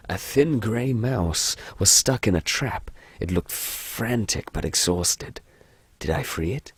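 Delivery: slow, measured horror narrator; unhurried storybook narration in British accent; game story narration. Acted. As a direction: read it slowly, pitch sinking line by line.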